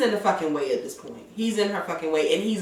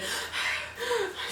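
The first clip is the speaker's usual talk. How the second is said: mock heavy breathing; 13 semitones higher, 13 dB quieter than usual. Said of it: "that little weird heavy breathing".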